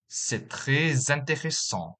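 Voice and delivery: "très intéressant" linked with a z sound, "trè-z-intéressant"; French liaison. Shown as a demonstration. Teacher demonstrating French liaison to learners. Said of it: "the following examples".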